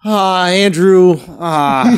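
slow, drawn-out bashful "ah"; aw shucks voice. Retold or imitated. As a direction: play it sheepish and apologetic. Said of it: "in his aw shucks voice".

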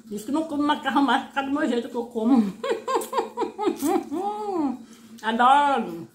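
speaking between bites; talking while chewing. Real, not acted. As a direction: mouth full of food. Seen 2: Puts food in mouth at 0.9, chews while speaking after.

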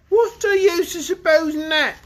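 dragon voice. Acted. Dragon telling the children about his ancestor, lightly voiced. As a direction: play the dragon, grumbling about his grandpa.

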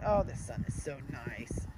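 soft, low contented puppy voice; lazy dog basking in the sun; voicing the dog.

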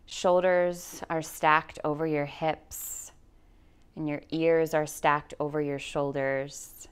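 calm, measured guide voice with long pauses; guided meditation. Acted. Yoga teacher guiding listeners through anxiety, in guided meditation voice. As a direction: lead them slowly into grounding, leaving space for breath.

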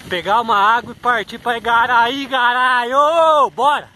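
loud urging shout. Real, not acted. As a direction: yell to push yourself on. Urging himself on. (gritando de incentivo)

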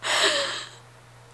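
high burst, breaking into laughter; amused laughing. Real, not acted. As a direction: crack up over someone's funny accent. Amused by the actor's accent.

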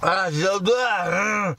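gagging, very slow words; retching through the words; dry heaving. Real, not acted. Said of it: "Ah, je vais vomir".

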